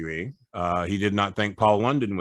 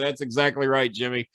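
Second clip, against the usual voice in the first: rising, higher and louder promo gloat; wrestling promo; 7 semitones higher, 3 dB louder than usual. Retold or imitated. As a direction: build the gloat until you are crowing. Retelling his wrestling promo on camera.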